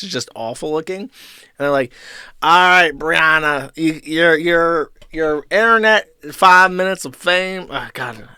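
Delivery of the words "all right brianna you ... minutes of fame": a clumsy mock Jewish accent, higher and louder; hammed-up Jewish accent producer voice, badly faked. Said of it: "I can't do Jewish correctly".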